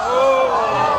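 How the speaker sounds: loud high "oh"; surprised cry. Real, not acted. Reacts to the roll.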